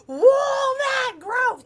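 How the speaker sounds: high, loud shriek; a character shrieking her line at full volume. Acted. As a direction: shriek it out in shock. Acting the loud childhood line.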